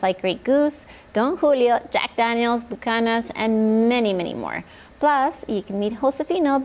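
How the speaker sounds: upbeat commercial announcer read. Acted. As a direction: sell it like a radio spot. Sponsor ad read.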